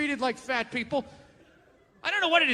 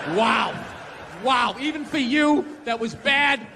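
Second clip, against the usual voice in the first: self-scolding. Retold or imitated. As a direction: tear into yourself like a fed-up parent. Berating himself in mirror.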